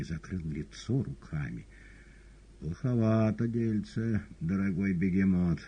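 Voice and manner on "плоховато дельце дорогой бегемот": quiet venomous voice. A narrator's reading. Korovyev mocks the cat, lightly venomous. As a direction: needle the cat with poison. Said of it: "тихо сказал Коровьев ядовитым голосом".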